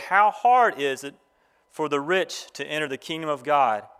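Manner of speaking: measured, deliberate Bible reading; formal reading to a congregation; scripture reading. Real, not acted. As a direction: read the passage aloud in phrases, pausing between them. Reads scripture aloud to graduates.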